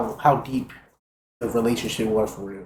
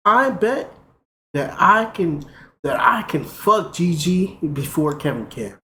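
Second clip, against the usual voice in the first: excited; 6 semitones higher, 4 dB louder, slower than usual. Retold or imitated. Announcing the bet boldly.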